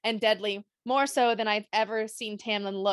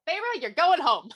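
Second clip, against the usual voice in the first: firm order; 7 semitones higher, 5 dB louder than usual. Retold or imitated. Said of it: "Tamlin's like".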